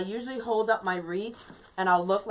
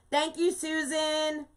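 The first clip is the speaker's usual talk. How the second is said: tag thanks; 8 semitones higher, slower than usual. Real, not acted. Thanking a viewer by name.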